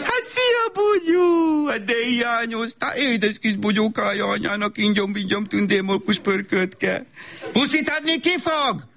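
high, slow doting coo; high sing-song baby talk with pet names; gushing baby talk. Acted. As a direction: smother the child in sweet nonsense. Mother gushes over toddler at pickup.

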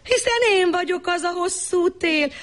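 high sly trickster voice; high voice of the long winter. Acted. Trickster to the wife, high and sly.

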